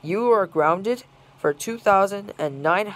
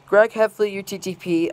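angry call. Real, not acted. Speaker scolding Greg Heffley, angry raised call. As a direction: call his name out in anger. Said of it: "very furious and angry message to".

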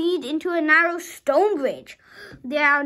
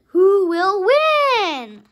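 very slow and louder, drawn out; suspenseful question; 5 dB louder, much slower than usual. Acted. Reading the race story aloud, dragging out the big question for suspense. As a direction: stretch every word to build suspense.

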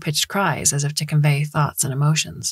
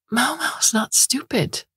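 angry correction; 8 semitones higher, slower than usual. Acted. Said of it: "Liang Yuan would angrily correct him".

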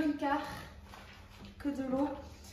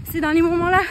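motivational rally; 4 dB louder than usual. Real, not acted. Cheering viewers on mid-run.

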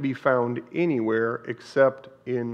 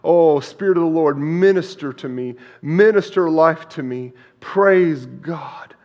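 fervent prayer; 3 semitones higher, 7 dB louder than usual. Shown as a demonstration. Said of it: "preacher models prayer".

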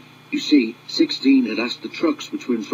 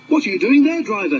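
much higher, louder foreman's shout; 9 semitones higher, 4 dB louder, faster than usual. Acted. Foreman runs up shouting at the driver, high and loud. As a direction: call out in alarm from a distance. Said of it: "he shouted".

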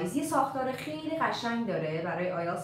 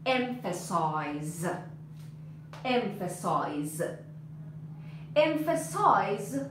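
very slow, lower, stretched syllables; slow word modelling; 4 semitones lower, much slower than usual. Shown as a demonstration. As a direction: draw out "emphasize" for the class. Teacher models the new verb.

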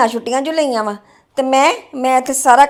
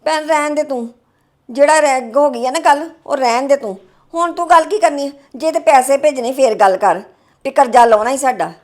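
curt, dismissive scolding; angry snapping. Acted. Sister-in-law snapping at husband's sister on the phone, angry. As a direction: brush her off sharply and resentfully. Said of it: "ਤੂੰ ਇੰਨੇ ਗੁੱਸੇ 'ਚ ਕਿਉਂ ਬੋਲਣ ਡਈ".

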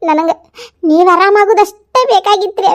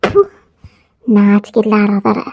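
scornful; 7 semitones lower, much slower than usual. Acted. Rival spits "ಥು" in scorn.

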